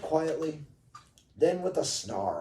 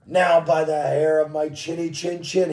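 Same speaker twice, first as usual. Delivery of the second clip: mildly raised storybook roar; 6 dB louder than usual. Acted. Wolf answering from outside the brick house, mild roar. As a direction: push it out firmly, a little louder. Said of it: "he roared".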